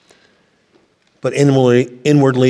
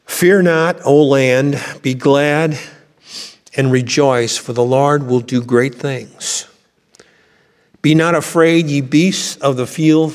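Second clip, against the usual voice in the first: solemn, lofty King James reading to the congregation; scripture reading. Acted. Preacher reading Joel to the congregation, solemn and lofty. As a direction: proclaim the verses like a herald.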